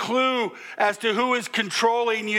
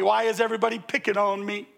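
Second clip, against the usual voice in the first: whiny victim; much faster than usual. Retold or imitated. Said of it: "Sounds like a Hee Haw episode".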